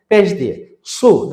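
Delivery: সু said slowly with rounded lips; rounded-lip vowel. Shown as a demonstration. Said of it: "ঠোঁটটা গোল করতে হবে". (ঠোঁট গোল করে ধীরে সু)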